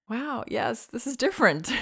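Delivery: put-on lifted sing-song, talking to baby; gently name it for the baby; high voice for a baby. Shown as a demonstration. Parent telling fussing baby it is different, high sing-song. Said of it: "So then we might say".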